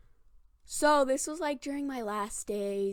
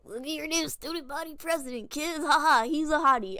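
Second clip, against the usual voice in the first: mock announcer; 5 semitones higher, 5 dB louder than usual.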